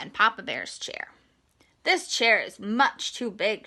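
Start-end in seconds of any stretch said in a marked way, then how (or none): 1.8-3.7 a hint of a girl's voice, mildly put out; light girl voice, a touch annoyed; lightly voiced little girl. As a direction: lightly play the girl finding it too big. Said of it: "she said".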